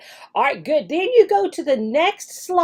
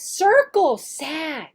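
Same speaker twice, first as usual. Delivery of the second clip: slow instruction; 3 semitones higher, much slower than usual. Shown as a demonstration. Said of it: "While you say circle sad".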